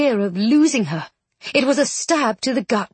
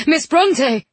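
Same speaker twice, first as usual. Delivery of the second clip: raised, eager call of a name; startled relief; 5 semitones higher, 4 dB louder than usual. A narrator's reading. Alexander as his friend gasps back to life, startled relief. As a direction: exclaim in joyful shock. Overjoyed that she gasps alive.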